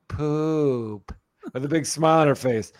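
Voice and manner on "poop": put-on toddler answer. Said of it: "And she goes".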